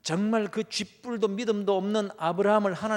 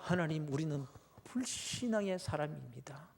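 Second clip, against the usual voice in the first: whispered; 3 semitones lower, 9 dB quieter than usual. Acted. Confession prayer.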